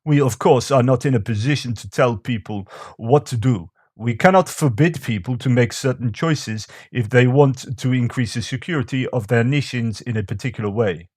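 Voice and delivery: amateur imitation of a Russian accent; bad Russian accent. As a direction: read it out in a badly faked Russian accent. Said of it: "a Russian strategist said this".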